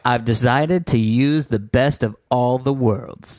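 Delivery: slow, lofty inventor voice; slow mock scientist voice. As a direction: announce it slowly and proudly. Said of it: "this person was like".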